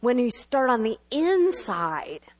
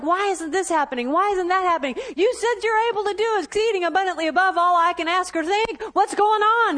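higher-pitched, indignant questioning of God; mock complaint; 5 semitones higher than usual. Believer questioning God over unanswered promises, mock complaint. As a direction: plead your grievance, rising in pitch and force.

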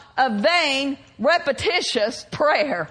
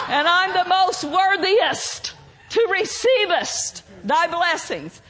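mock pious prayer. Mocking the hypocrites praising themselves, hammed-up pompous prayer. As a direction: lay on the fake piety thick. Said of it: "They were probably saying something like".

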